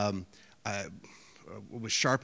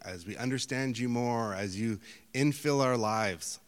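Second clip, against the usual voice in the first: prayer. Acted. Closing prayer.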